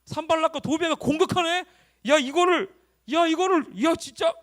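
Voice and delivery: high, loud acted outrage at the attack; vivid immersed reading. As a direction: react aloud as if you are in the story. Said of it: "이러면서 막 이런 실감나게 읽어보는 거야". (실감나게 흥분해서 높고 크게)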